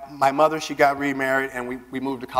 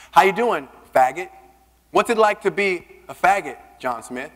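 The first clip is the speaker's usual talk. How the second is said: raised-pitch retold bully's jeer; jeering taunt; 3 semitones higher, 4 dB louder than usual. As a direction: taunt a classmate publicly. Teen taunting openly gay classmate.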